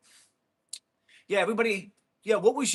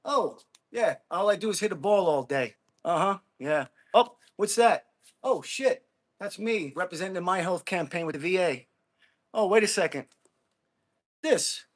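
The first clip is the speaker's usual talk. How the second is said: mock surprise. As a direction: pretend to discover it. Mock discovering his own records.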